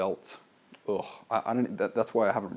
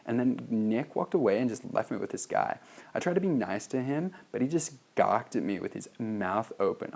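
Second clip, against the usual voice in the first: put-on LA girl voice; 2 semitones higher than usual. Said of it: "L A girl voice for this".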